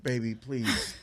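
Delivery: low, soft mock British accent; half-hearted imitation of a British accent. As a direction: mimic a bad British accent, low and quiet. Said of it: "sometimes people do the accent".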